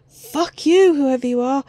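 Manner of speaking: loud mocking yell; taunting shout. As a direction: shout it at them. Taunting characters.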